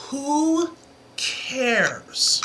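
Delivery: ordinary delivery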